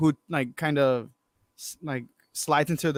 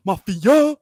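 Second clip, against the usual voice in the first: a loud call from a song; shouted lyric; 4 semitones higher, 7 dB louder than usual. Pretend. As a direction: yell the hook out of nowhere. Imagining a song dropping mid-rally.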